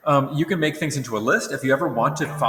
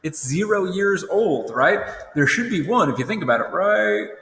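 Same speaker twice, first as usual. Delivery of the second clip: higher, doubtful questioning voice; skeptical objector; 6 semitones higher than usual. Retold or imitated. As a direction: play the nitpicky student. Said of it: "those people who are right now saying".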